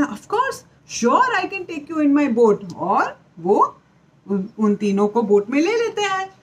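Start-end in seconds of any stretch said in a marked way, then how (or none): 0.0-2.7 high, slow, obliging beaver; lightly voiced cartoon beaver; friendly Tico. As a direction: happily agree to give the ride. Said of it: "तो टीको बोलता है".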